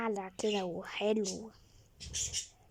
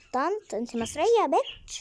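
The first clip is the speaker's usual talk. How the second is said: offended surprise; 5 semitones higher than usual. Acted. Offended at being called auntie.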